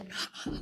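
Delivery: imitating his friend's hard laugh; short breathy burst of imitated laughter; imitated mocking laugh. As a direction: mimic someone bursting out laughing. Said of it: "he laughed really hard".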